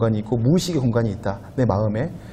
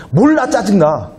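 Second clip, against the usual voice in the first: a slow, sulky "몰라, 짜증나", higher and drawn out; mock irritated; 7 semitones higher, 4 dB louder, slower than usual. A preacher mimicking a grumpy young person, slow and sulky. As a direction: play the grumpy one who won't explain.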